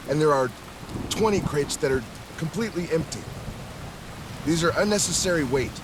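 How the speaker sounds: earnest crewman reporting. Acted.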